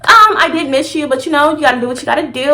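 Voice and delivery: breezy fake-casual reassurance; mock sweet and unbothered; fake nonchalance. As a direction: pretend everything is fine, airy. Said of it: "I played it off so smooth".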